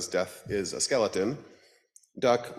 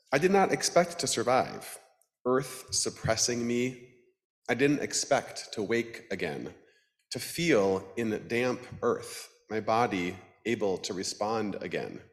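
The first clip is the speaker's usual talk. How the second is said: poem reading. Acted. Reading Gluck poem aloud.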